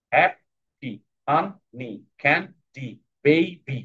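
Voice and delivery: hap-pi, fun-ni, can-di, bay-bi, with gaps inside; two separate syllables. Shown as a demonstration. Teacher proving two-syllable words, হ্যাপি, ফানি, ক্যান্ডি, বেবি each split in two. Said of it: "দুই syllable বিশিষ্ট word".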